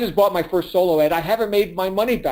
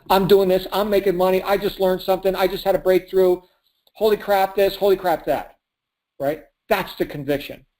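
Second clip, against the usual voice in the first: usual speaking voice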